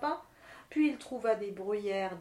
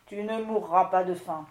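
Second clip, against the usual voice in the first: gentler; 4 semitones lower, 4 dB louder than usual. Acted. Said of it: "avec plus de douceur".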